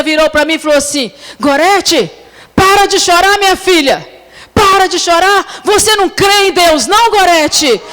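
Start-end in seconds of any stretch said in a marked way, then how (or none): 1.4-7.8 high, forceful scolding of a daughter; acted-out mother urging faith, voice raised; mother's stern rebuke. Mother rebukes crying daughter on the phone, stern and high. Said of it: "Desse jeito, irmãs, eu fiquei até com vergonha".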